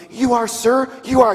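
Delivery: high-pitched deferential reply; submissive monkey. Acted. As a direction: answer as a cowed little animal.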